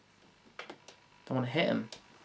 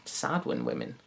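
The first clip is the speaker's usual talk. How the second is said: normal talking voice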